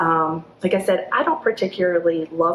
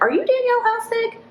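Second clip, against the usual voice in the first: called from a car. Retold or imitated. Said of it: "she yells out the window".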